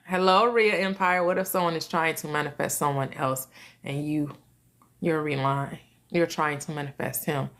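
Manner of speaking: low, subdued read-out of a question; reading aloud. Real, not acted. Reads out a listener's question.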